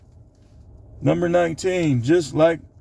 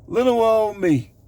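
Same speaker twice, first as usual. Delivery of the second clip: mock innocent voice; 7 semitones higher than usual.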